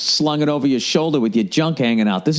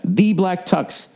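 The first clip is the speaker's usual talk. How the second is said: announcer voice; 3 semitones higher, much slower than usual. Acted. Ad read, slow brand name.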